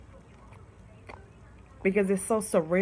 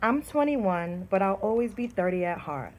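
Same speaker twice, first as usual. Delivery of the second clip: reading her own poem. Shown as a demonstration. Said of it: "I said".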